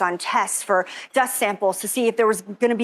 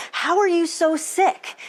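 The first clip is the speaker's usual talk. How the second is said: doctor's high, baffled rising question; puzzled doctor; 7 semitones higher than usual. Retold or imitated. Doctor puzzling over her blood work, high baffled question. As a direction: ask it like a stumped doctor. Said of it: "being like".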